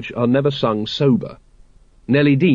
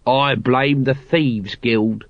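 put-on slow drunk grumble; much slower than usual. Drunk Nobby blaming.

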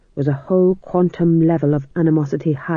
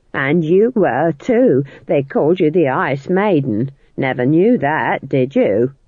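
sneering; slower than usual. Acted. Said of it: "sneered Nanny".

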